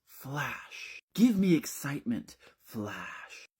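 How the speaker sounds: high, punchy photographer's commands; demanding photographer. Acted. Imagined photographer yelling at the model, mock-dramatic shouts. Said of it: "my photographer would be yelling certain things at me".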